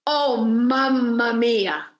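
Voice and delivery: slow amazed mamma mia; retold shout. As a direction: mimic his cry from inside the wall. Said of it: "and he shouts".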